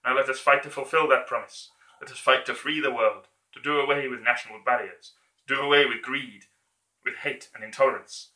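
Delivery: building to a rousing shout; dictator speech. Acted. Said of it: "that version of his speech".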